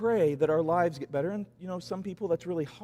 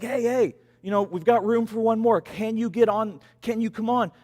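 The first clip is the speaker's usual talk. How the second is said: louder calling-out from a helicopter; bullhorn call; 4 semitones higher, 4 dB louder than usual. Retold or imitated. Rescue crew calling to the man on the roof, bullhorn-loud. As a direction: hail him down from above. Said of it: "through the bullhorn".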